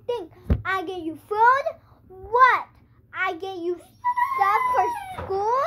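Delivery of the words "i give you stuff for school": mock crying. Mom complaining, voice breaking.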